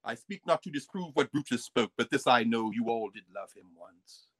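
a light mock British accent, reciting Shakespeare. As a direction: declaim it lightly in a stage British accent, slowing at the end. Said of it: "why are you speaking with a British accent".

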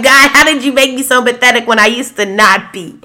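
amazed question to God. Retold or imitated. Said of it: "I'm like".

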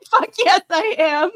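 loud, high burst of resolve; excited yes. Retold or imitated. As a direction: shout it out pumped up. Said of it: "And then you're like".

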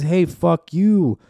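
mock confrontational shout. Imagined political insult acted out.

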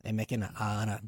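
unhurried Virgin Islands accent; own island accent. Shown as a demonstration. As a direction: say it plainly in a Caribbean accent. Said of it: "I say just like that".

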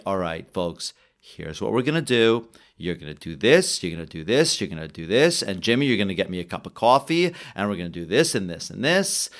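a fixer who has done this a hundred times; cool calm. Retold or imitated. The Wolf laying out the plan to the panicking men, cool and calm. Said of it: "amazing calmness".

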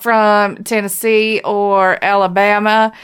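loud, insistent mock demand; emphatic plea. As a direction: press the point firmly, word by word. Emphatic comic plea to Bill.

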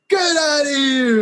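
high, slow, stretched-out disbelief; mock the cop's amazement; amazed disbelief. The cop hearing the name Rodriguez, stretched high disbelief.

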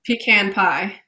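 "Pecan" said PEE-can; chosen pronunciation. Real, not acted. Guest picking a side, "Pecan" as PEE-can. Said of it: "I said pe-, pecan pie".

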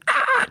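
very high wheezing squeal; high, strangled squeal of hysterics; imitated helpless laughing. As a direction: mimic laughing too hard to talk. Couldn't even talk.

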